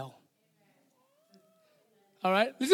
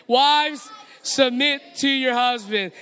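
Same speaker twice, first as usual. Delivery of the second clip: louder, like you believe it. Shown as a demonstration. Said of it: "Let's say it out louder like you believe it".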